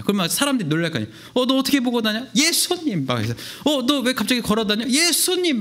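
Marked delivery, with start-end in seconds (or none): 1.4-2.3 surprised. Acted. Townspeople surprised. 2.4-3.1 excited cry. Acted. Healed man shouting Jesus. 3.6-4.9 surprised. Acted. Townspeople surprised. 4.9-5.6 excited cry. Acted. Healed man shouting Jesus.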